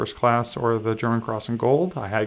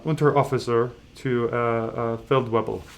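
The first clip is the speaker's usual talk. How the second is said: horrible German accent. Shown as a demonstration. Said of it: "Pardon my horrible, uh, uh, horrible, horrible German accent".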